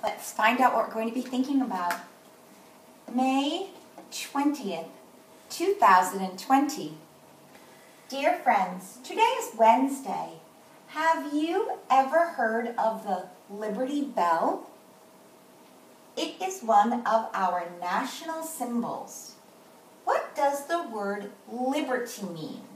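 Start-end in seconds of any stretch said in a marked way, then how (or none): 3.1-19.3 slow, deliberate classroom reading; morning message read-aloud. Acted. Teacher reading the day's letter to the class, slow read-aloud. 20.0-22.6 "liberty" set apart and stretched in a slow question; stress on liberty. Shown as a demonstration. Teacher reading the letter's question to the class, stress on "liberty". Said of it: "I stressed the word liberty".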